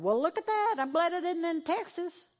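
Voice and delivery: a preacher mocking an indifferent viewer, smug; smug bystander. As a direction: sneer like a relieved onlooker. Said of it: "just going".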